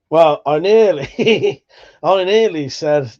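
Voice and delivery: drawn-out words broken by a laugh; stifle a laugh while starting to confess; amused, stretched-out hesitation; laughing at himself. Real, not acted. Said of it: "sorry that I'm laughing".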